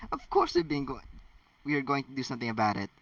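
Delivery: fast, hurried reassurance; quickly. Acted. Hermione's mother quickly assuring McGonagall they will act. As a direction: rush it out before she's judged. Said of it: "her mother said quickly".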